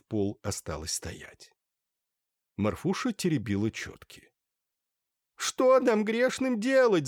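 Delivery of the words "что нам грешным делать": high, slow wail. A narrator's reading. Merchant's wife wails to the holy fool, slow high howl. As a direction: drag it out in a howling lament. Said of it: "завывала купчиха".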